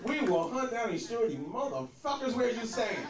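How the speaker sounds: mock tough president; hammed-up presidential declaration; presidential rewrite. Shown as a demonstration. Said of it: "That sounds more presidential".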